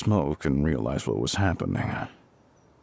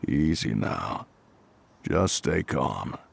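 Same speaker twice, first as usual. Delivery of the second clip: slow, low reassuring words; calming; 4 semitones lower, slower than usual. Acted. Firefighter calming the shaken resident, slow and reassuring. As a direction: ease a frightened person down gently.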